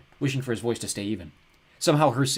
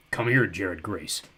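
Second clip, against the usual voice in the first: booming ogre; much slower than usual. Acted. The ogre calls Jared to come, slow and booming. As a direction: boom it out slowly like a giant. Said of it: "Malgorath's voice boomed".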